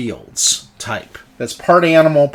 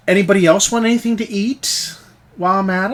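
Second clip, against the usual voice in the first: bartender voice; 6 semitones higher, faster than usual. Acted. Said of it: "she goes".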